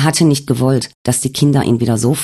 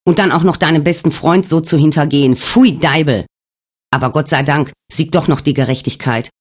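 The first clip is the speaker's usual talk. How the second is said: higher, raised angry tirade; furious accusation; 4 semitones higher than usual. Acted. Alex rages at Wolfgang over the diary, higher. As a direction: hurl the blame at him.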